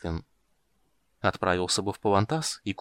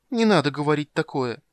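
high, louder pleading squeak; squeaky pleading voice; 6 semitones higher, 4 dB louder than usual. A narrator's reading. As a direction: beg in a thin squeaky voice. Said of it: "тонким умоляющим голосом пропищал крыса".

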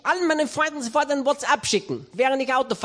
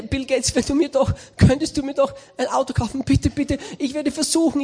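whining plea. Retold or imitated. Reinhard begging Bill Gates for a used car, whining. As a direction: beg like a bargaining child.

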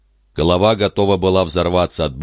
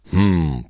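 thoughtful humming. Acted. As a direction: hum while thinking it over. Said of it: "промычал Алуф".

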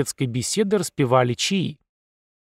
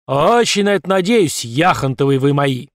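sarcastic general; 5 dB louder than usual. Acted.

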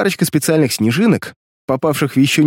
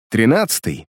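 glum; 4 semitones lower than usual. Acted. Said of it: "невесело произнёс Резцов".

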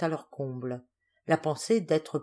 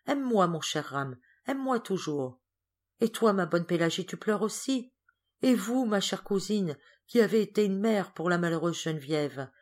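put-on gentle sick girl; 3 semitones higher than usual. Geneviève comforting Rame, Pélagie and her cousin, lightly tender. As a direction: thank each of them sweetly from the sickbed.

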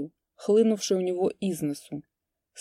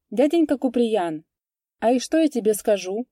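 put-on higher, loud ringing child's voice; ringing girl's voice; 5 semitones higher, 5 dB louder than usual. A narrator's reading. Little girl eagerly telling Kupriyan a secret, ringing. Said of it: "звонко заговорила она".

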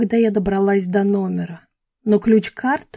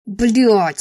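cursed through teeth; 4 dB louder than usual. A narrator's reading. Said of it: "сквозь зубы выругался Адам".

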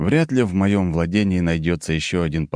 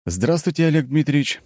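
friendly smiling hello; smiling greeting; 9 semitones higher than usual. A narrator's reading. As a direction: greet him with a smile. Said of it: "с улыбкой произнёс я".

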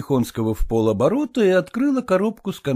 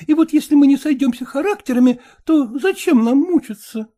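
a hint of a brisk, frank young lady; slightly raised voice, talking down his formality; lightly voiced young woman; 13 semitones higher, 4 dB louder than usual. Young woman coolly tells her suitor to speak plainly.

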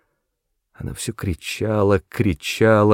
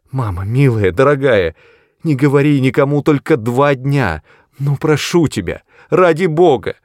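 high, loud, desperate plea; frantic begging; 6 semitones higher, 5 dB louder than usual. A narrator's reading. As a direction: plead for mercy in panic. Daughter begs mother in terror.

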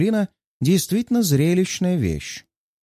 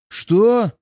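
higher, louder furious roar; enraged growl; 8 semitones higher, 4 dB louder than usual. A narrator's reading. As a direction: snarl it in outrage. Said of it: "рычит Буола".

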